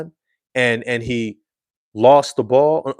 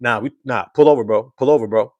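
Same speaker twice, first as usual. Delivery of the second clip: louder, supportive then firm pull-over call; firm friend; 3 dB louder than usual. Retold or imitated. Passenger telling the driver to pull over, firm. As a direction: back him, then lay down the law. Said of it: "and that's the hint. Like".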